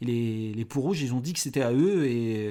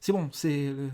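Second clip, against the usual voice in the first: higher, stammering plea for mercy; terrified gangster prisoner; 3 semitones higher than usual. Acted. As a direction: stutter out a begging plea. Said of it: "Et t'es".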